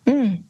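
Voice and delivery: a short doubtful closed-mouth "mm"; a small unconvinced hum; skeptical hum. Shown as a demonstration. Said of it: "like that".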